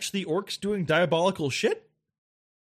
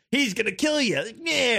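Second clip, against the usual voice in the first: higher mock hype-man orc; goofy orc sidekick; 5 semitones higher than usual. Lesser orc introducing his boss, goofy. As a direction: imitate a silly henchman's introduction. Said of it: "it was just like".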